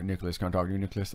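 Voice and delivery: low creepy man; scary neighbor voice. Retold or imitated. Repeating the neighbor's full-name summons, low and creepy. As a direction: call out the name in a deep, creepy voice. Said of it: "he talks like this".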